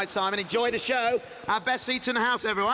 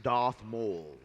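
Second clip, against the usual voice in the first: promo narration. Acted. Host reads promo narration.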